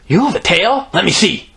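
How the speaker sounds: put-on high-pitched excited little girl. A narrator's reading. Greta misunderstands the word tail, high excited voice. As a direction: burst out eagerly, high. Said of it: "Greta said excitedly".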